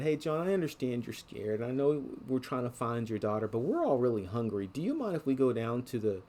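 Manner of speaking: brother's casual plea. Retold or imitated. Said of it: "my brother came to me and said".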